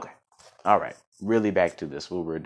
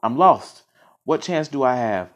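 louder, higher cry of despair; 7 semitones higher, 7 dB louder, slower than usual. A narrator's reading. Captured little quill to himself, in despair. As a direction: lament it, falling away at the end. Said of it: "thought the little quill in despair".

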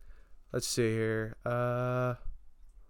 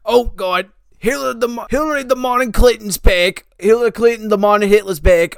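put-on panicky old man; faster than usual.

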